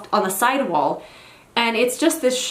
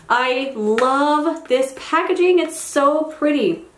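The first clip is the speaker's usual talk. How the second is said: slow admiring coo; 4 semitones higher, much slower than usual. Real, not acted. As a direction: draw out "so pretty" slowly, in admiration. Admiring the palette packaging.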